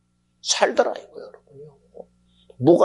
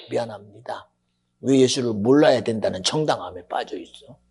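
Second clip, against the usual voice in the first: ordinary delivery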